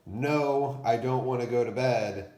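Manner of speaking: put-on a kid protesting bedtime, a bit fast; mock bedtime protest; whiny child refusal. Shown as a demonstration. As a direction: whine it like a child who won't go to bed. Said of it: "this isn't like".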